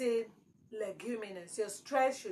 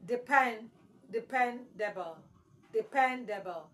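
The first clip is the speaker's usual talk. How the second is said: Depend, then dependable, both weighted on PEN; stress on PEN. Shown as a demonstration. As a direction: drill de-PEN-dable by repetition. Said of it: "So your stress should be on the second syllable".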